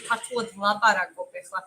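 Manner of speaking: a quick Georgian phrase for the chat; speaking Georgian. Shown as a demonstration. Streamer shows chat some Georgian, speaking Georgian. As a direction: say "Kartuli, Lapara, Kopehla." as Georgian words, Georgian sounds throughout. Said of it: "I'll say something in Georgian".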